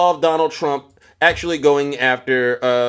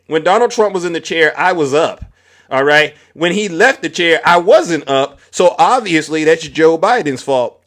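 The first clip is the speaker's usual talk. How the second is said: quoting her; 3 semitones higher than usual. Retold or imitated. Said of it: "This is what she said".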